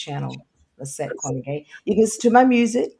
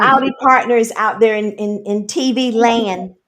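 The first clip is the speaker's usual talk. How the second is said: cowboy host voice; 5 semitones higher, 9 dB louder than usual. Pretend. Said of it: "But no, I'm just joking".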